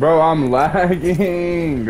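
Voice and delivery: hyped gamer bro. Real, not acted. Complaining about lag mid-fight.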